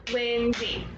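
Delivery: "Lindsay" in two even beats; syllable by syllable. Shown as a demonstration. Teacher has pupils clap the name along, syllable by syllable. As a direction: clap out "Lindsay", one beat per syllable. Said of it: "clap my name with me".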